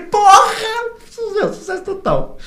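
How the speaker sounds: ecstatic yell. Retold or imitated. Recalls celebrating the win.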